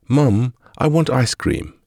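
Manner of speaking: put-on high, slow begging child voice; whiny child. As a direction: drag out the plea like a sulky kid. Child begs mother for ice cream.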